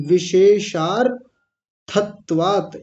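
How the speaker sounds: slow विशेषार्थत्वात् with a small hold on the र; careful split at the र; slight pause on r. Shown as a demonstration. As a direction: linger a little on the र of विशेषार्थत्वात्. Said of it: "यहाँ र पर थोड़ा सा रुकेंगे".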